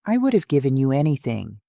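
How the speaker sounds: tearful, rushing the words out; hurried through tears; crying. Acted. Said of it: "and now I'm crying too".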